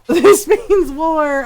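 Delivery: slow, loud, high mock threat; mock declaration of war. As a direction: declare it slowly with mock drama. Mock declaration, teasing friend.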